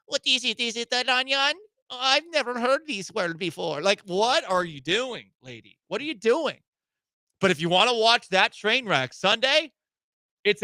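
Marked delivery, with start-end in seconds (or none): 0.1-3.8 high-pitched fake Spanish accent, acting baffled; mock Spanish accent. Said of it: "I'm trying to impersonate her". 3.8-6.6 drawn-out, exasperated questioning; exasperated disbelief. Acted. Exasperated at the woman he imitates.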